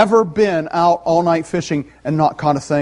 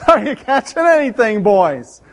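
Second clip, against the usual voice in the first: put-on louder teasing shout to the boys; teasing call; 4 semitones higher, 4 dB louder than usual. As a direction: call out with a grin in the voice. Jesus voiced calling to fishermen.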